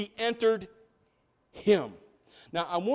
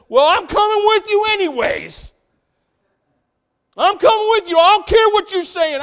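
much higher and louder put-on voice, insisting; stubborn Peter; 10 semitones higher, 11 dB louder than usual. Peter insisting to Jesus, a high loud stubborn put-on voice. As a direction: dig in like a stubborn Peter who won't be left. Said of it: "the speaker says".

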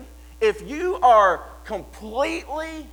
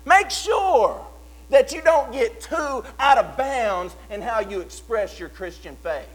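lightly voiced scolding critic, higher; mocking critic; 4 semitones higher, 3 dB louder than usual. Critics telling believers to tone it down, a mildly mocking scold. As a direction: play the preachy naysayer with mild scorn. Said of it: "There are gonna be people to say".

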